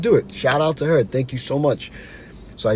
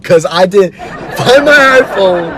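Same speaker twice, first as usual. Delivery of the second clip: laughing disbelief; 6 semitones higher, 8 dB louder, slower than usual. Real, not acted. Laughing at his own frustration.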